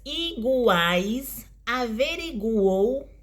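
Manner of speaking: "iguais" and "averiguou" slowly, glides stretched; drawn-out triphthongs. Shown as a demonstration. Teacher giving oral triphthong examples, drawn-out triphthongs. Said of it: "Os tritongos podem ser orais".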